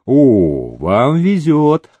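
a hint of a rasping old soldier; husky bass. A narrator's reading. Captain teases the lucky gambler, mock hoarse. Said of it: "прохрипел густым басом ротмистр".

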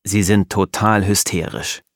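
usual speaking voice

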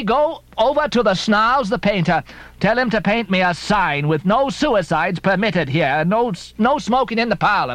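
high fussing landlady; landlady lament. Acted. Mrs Hussey fretting over her house, high fussing lament. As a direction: fuss and lament like a put-upon landlady. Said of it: "she cried".

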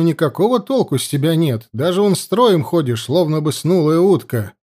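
stern officer needling a recruit; mocking officer. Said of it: "поддел новичка подпоручик Егоров".

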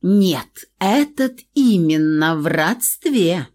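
pointed and knowing; meaningful. Acted. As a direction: lean on it knowingly. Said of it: "многозначительно проговорила Британи".

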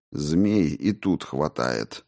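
slow, low and icy; cold. Acted. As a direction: answer coldly and deliberately. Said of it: "холодно ответил царевич".

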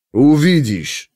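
put-on short nasal grumble with Scythian accent; gruff grumble. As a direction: slowly grunt it out. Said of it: "буркнул скиф". (буркнуть по-скифски)

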